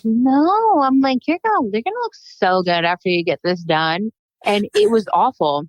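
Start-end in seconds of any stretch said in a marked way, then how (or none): 0.0-4.1 faked brave face. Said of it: "I should have won an Oscar for that performance".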